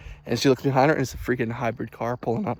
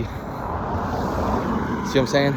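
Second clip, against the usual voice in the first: whisper; much slower than usual. Real, not acted. Quiet car passing.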